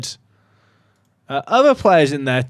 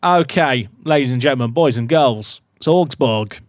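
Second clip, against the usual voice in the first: a light, hammed-up Australian twang, slightly louder; 3 dB louder than usual. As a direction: play a jokey Australian presenter. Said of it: "talking with an Australian twang".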